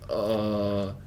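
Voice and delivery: imitated queasy "uh"; food-sick groan. Friend sick from eating too much, queasy groan. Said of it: "food sick from eating too much".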